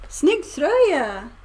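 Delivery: Snygg tröja said slowly and carefully; careful learner. Shown as a demonstration. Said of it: "Or you just go".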